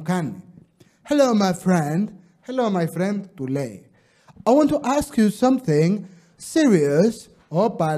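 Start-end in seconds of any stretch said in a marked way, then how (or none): 1.1-3.2 put-on tourist speaking accented English. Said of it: "Θα το πω και με προφορά". 4.4-7.3 put-on English accent. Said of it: "Θα το πω και με προφορά".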